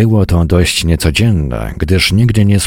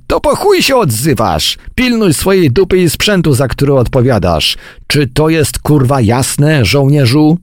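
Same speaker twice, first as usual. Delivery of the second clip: much higher, irate scolding; angry dressing-down; 9 semitones higher than usual. A narrator's reading. Major telling soldier to mind his gear, angry dressing-down. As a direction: demand obedience from an insubordinate soldier.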